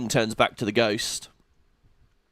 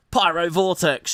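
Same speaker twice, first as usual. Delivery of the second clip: slow, drawn-out mock anime attack call; a hint of anime spell yell; mock anime spell cry; 4 semitones higher than usual. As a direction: call the spell like an anime hero, half-hearted. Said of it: "she screams like it's an anime".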